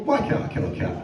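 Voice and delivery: whispered guilty question; whispered query. Shown as a demonstration. Comic asking Google in a whisper. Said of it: "I say to Google".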